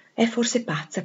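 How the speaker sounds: hushed, voiceless whisper; whispered thought. Acted. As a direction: breathe the thought without voice.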